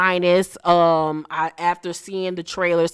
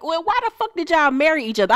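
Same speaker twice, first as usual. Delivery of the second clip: incredulous high retort; 10 semitones higher, faster than usual. Retold or imitated. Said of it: "And I was like".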